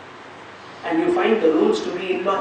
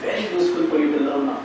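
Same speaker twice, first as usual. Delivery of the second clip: softer and lower, drawing them in to listen carefully; serious hush; 6 semitones lower, 7 dB quieter, faster than usual. Real, not acted. Teacher to students before the key lesson, hushed. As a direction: drop the voice so they lean in.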